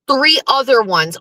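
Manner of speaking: ordinary delivery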